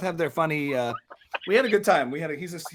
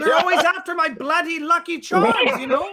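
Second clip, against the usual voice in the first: hammed-up complaint, pitched way up; Jordan Peterson as leprechaun; 10 semitones higher, 3 dB louder than usual. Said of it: "he's not a leprechaun".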